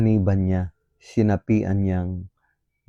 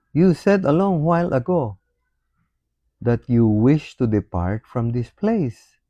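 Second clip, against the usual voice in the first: raised, accusing devil's voice, louder and higher; voicing the devil; 4 semitones higher, 3 dB louder than usual. Preacher mocks the saint as the devil, raised and accusing. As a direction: priest lets the devil taunt the saint. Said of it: "Sabi ng demonyo".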